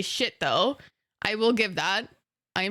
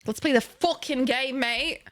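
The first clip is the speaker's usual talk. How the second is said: mock British accent; 3 semitones higher than usual. Mock accent calling to play.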